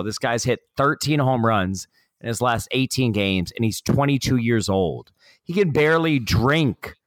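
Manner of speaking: pumped yelling. Real, not acted. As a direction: rant like a hyped fan. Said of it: "I feel like he's yelling".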